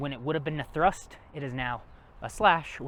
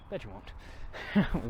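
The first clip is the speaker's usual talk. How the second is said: slow teasing drawl; much slower than usual. Shown as a demonstration. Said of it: "I, I bet you won't".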